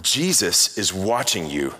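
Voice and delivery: slow, lightly played ominous voice; hint of a booming voice, slow and measured; mock booming voice. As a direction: draw out the warning with a mild boom. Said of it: "the voice boomed again".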